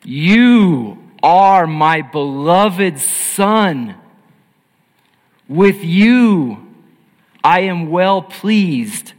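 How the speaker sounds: loud, slow booming proclamation; the Father announcing from the sky, loud and slow; voice of God. Acted. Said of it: "and this voice, an audible voice from heaven".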